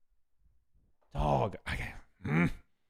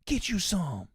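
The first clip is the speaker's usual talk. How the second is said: imitating Caleb Plant; 6 semitones higher, slower than usual. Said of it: "And then Caleb go".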